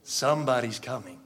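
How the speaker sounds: soft, slowing, with long pauses; quiet, weighty wonder; hushed awe. Real, not acted. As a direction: let it sink in, dropping to a reverent hush. Awed at Christ's promised return.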